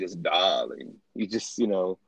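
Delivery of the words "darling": low, affected "darling"; a tepid, diva-like "darling"; exaggerated darling. Shown as a demonstration. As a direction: toss it off low with grand affectation. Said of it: "say it in a very exaggerated".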